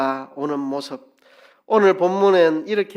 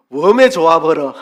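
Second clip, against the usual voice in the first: loud Jeolla dialect exclamation falling on 웜에; 전라도 사투리로 크게 외치듯; 2 semitones higher, 12 dB louder than usual. Shown as a demonstration. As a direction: shout 웜에 좋아버려 in Jeolla dialect. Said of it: "뭐 이런 말 되겠죠".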